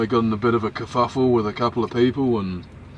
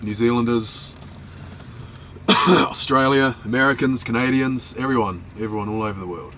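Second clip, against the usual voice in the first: cheerful shout-out. Real, not acted. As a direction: call out hello to the world. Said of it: "wanna say hello to people".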